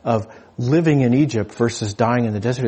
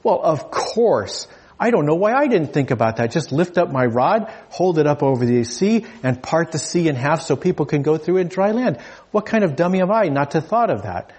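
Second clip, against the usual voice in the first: a light, pitched-up Moses mocking himself; mock sheepish Moses; 3 semitones higher than usual. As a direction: play Moses kicking himself. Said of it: "Moses slaps his head and says".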